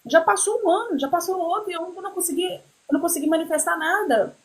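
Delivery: high, anxious retold outburst; recalling her despair at not manifesting anything, high and anxious. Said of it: "eu falei".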